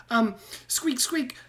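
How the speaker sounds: high, squeaky rat voice with squeaks; squeaky rat man. Acted. GM voicing Ratrick.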